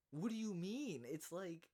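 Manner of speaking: loud, high What do you mean; incredulous outburst. Real, not acted. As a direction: fire the question back in outrage. Ranting at commentators.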